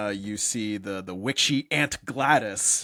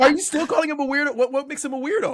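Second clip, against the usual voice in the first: high, loud, laughing disbelief; laughing protest; 7 dB louder, faster than usual. Real, not acted. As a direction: challenge it through laughter, pitch jumping up. Laughing protest at co-host's verdict.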